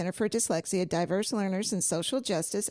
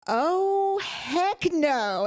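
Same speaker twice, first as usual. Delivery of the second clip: much higher, louder mock gasp; retold shocked outburst; 8 semitones higher, 3 dB louder, much slower than usual. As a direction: play the shock of the moment. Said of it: "I go".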